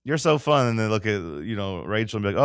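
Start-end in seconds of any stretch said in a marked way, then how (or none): 0.0-0.7 gushing salesgirl. Retold or imitated. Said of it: "they're like".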